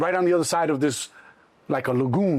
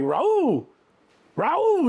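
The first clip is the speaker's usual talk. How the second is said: guard calling a name out across the room, the second call much higher; 11 semitones higher than usual. Retold or imitated. Guards calling his alias name.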